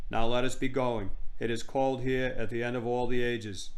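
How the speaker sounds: hammed-up regal declamation; grand queen, deliberately overacted; terrible actress queen. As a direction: play the queen like a bad actress.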